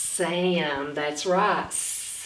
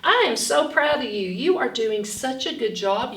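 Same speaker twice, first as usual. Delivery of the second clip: enthusiastic praise; 3 semitones higher, 4 dB louder than usual. Real, not acted. Teacher praising children for learning their sounds.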